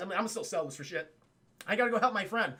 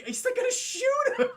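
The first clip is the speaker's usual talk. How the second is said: laughing through the words, pitched up; real laughter; 4 dB louder than usual. Real, not acted. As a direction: crack up as you say it.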